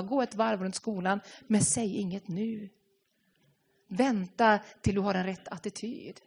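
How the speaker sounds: soft, calming inner voice; gentle whisper. Retold or imitated. Jesus calming a teacher losing patience, soft and hushed. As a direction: soothe her like a quiet inner whisper. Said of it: "hör du den här viskningen".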